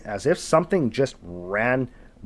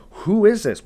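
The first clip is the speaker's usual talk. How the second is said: high, loud alarmed question; startled; 9 semitones higher, 5 dB louder than usual. Retold or imitated. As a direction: blurt it out in shock. Startled demand in the dark.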